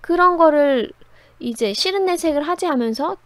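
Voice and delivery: normal talking voice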